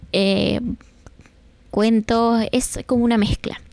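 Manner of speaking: plain reading voice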